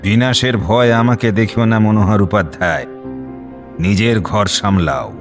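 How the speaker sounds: low, threatening warning; strange menacing voice. Acted. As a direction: warn him off, slowing on the last words. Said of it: "অদ্ভুত এক স্বর বেরোয় জয়রামের গলা দিয়ে". (অদ্ভুত স্বরে নিচু গলায় শাসানি)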